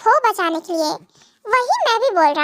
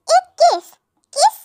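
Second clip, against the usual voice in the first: mocking echo; 8 semitones higher, 3 dB louder than usual. Wife mocks husband's request.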